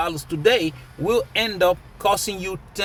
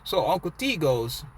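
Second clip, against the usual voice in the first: normal talking voice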